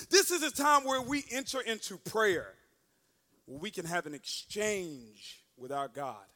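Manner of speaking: slowing into a low, hushed invitation; solemn pastor. Retold or imitated. Pastor to congregation after preaching, solemn and settling.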